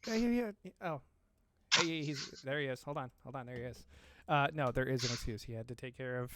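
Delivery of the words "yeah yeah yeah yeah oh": whispered. Real, not acted. Unvoiced agreement.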